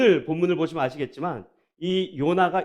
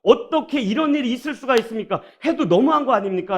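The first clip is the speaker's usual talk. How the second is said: raised, heated questions thrown at God; a mock angry complaint, higher and louder; angry protest; 4 semitones higher, 4 dB louder than usual. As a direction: protest like an indignant prophet. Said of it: "하나님께 막 화를 내는".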